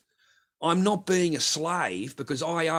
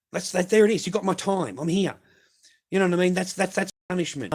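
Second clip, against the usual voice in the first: angry rant; 5 semitones higher, 4 dB louder than usual. Real, not acted. Ranting about forced community work.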